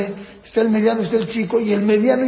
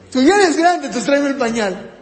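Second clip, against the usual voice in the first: higher, louder mock parent giving orders; bossy parent; 5 semitones higher, 4 dB louder than usual. Parent ordering the older child to fetch a diaper, mock bossy. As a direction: hand off a chore offhandedly. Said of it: "muchos papás se equivocan".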